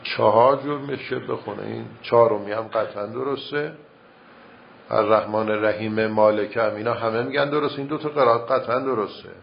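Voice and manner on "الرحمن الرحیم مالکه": two verses kept apart, breath at «الرحیم»; separate verses with a breath. Shown as a demonstration. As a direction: pause and breathe after «الرحیم» before «مالکه». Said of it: "اصلاً نفس بکشه، دو تا آیه رو هم منفکش بکنه".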